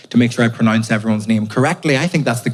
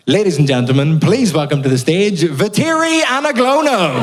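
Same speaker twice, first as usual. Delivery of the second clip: compere voice; 5 semitones higher than usual. Retold or imitated. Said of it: "One time a guy went".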